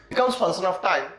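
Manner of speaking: drawn-out emphatic statement. Shown as a demonstration. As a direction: lean hard on the key phrase. Teacher stressing the key idea.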